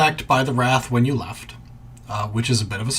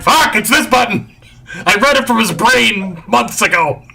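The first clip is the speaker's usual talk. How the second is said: exasperated aside; 9 semitones higher, 5 dB louder than usual. Pretend. GM voices Grieve's exasperated thought.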